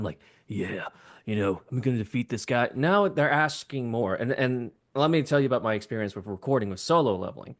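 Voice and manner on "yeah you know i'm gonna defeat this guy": anime breathy voice. Shown as a demonstration. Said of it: "the anime breathy voice".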